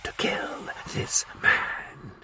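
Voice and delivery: slow, hissed whisper. A narrator's reading. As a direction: hiss the threat. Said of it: "he hissed".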